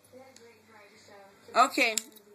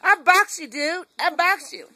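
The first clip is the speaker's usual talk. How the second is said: mock threat; 2 semitones higher than usual. Real, not acted. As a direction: act tough with the dog.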